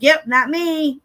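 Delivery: high, loud, playful boast; proud retort. Retold or imitated. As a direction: act out a chirpy, proud comeback. Retold proud reply to praise.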